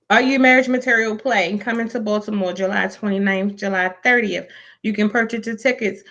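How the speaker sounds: even, measured announcement voice; promo read. Real, not acted. Host plugs the play's tickets, promo read. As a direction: read out the event details steadily.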